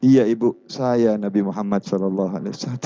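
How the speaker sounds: low, calm voice of the Prophet; the Prophet answering. Acted. The Prophet calmly answering the woman, low voice.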